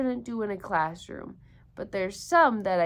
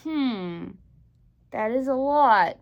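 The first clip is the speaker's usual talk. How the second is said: little hare thinking; 2 semitones higher, 8 dB louder than usual. Acted. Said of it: "thought Little Nut Brown Hare".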